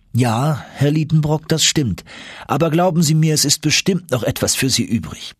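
a hint of an obliging professor; friendly Icelandic professor, encouraging.

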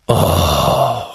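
long, let-down groan; disappointed groan. A narrator's reading. Team's supporters react to the missed shot, groaning. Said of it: "stöhnten die Rottendorfer im Chor".

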